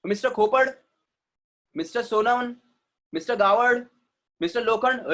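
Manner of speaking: खोपड़, सोनवन, गावड़, लोखंड with the final "e" dropped; foreigners' mispronunciation. Acted. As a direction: mimic foreigners reading लोखंड with a silent final e. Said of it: "हम लोग को आकर क्या बोलते हैं?".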